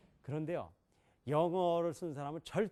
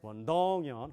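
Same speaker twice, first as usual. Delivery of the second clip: 원동연 with 동 punched; stress on 동; 4 dB louder, slower than usual. Shown as a demonstration. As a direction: hit 동 in the name. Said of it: "이 사람들은". (동 강세)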